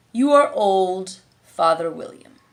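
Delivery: slow, drawn-out command; lazy caterpillar, stretching the words; caterpillar ordering. A narrator's reading.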